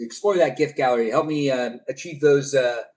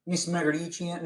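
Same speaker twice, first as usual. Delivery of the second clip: tentative, softer Southern attempt; Southern accent; 4 semitones higher, 5 dB quieter than usual. Streamer attempts a surname for the first time, Southern accent. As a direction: try it uncertainly in a Southern accent. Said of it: "that in a Southern accent before".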